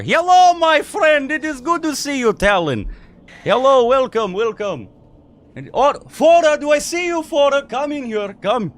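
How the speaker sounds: booming tavern keeper. Acted. Tavern keeper calls to arriving friends, loud and jolly. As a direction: bellow a hearty welcome from inside the tavern.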